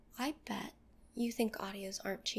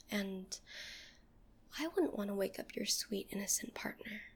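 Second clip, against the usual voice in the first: seductive whisper. Acted. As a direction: breathe every word close to the mic.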